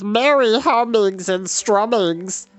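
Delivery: eager shaggy creature, jabbering; a loyal little beast chattering hopefully; odd creature voice, eager; Gurgi voice. A narrator's reading. Gurgi's voice held.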